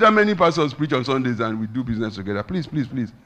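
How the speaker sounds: high, loud burst easing into pleas; animated mock persuasion; insistent pleading. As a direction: argue hard, then beg, as retold. Retelling a friend arguing and pleading.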